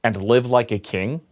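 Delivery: slow, mock villain speech; evil monologue. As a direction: drag out the villain's grand reveal, a little hammy. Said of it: "delivers this evil monologue".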